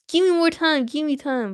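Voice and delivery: mock panic, begging for time; panicked plea.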